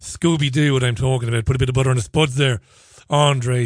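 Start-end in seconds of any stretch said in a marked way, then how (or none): 1.5-3.7 Irish ad line. Retold or imitated. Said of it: "if you're not Irish".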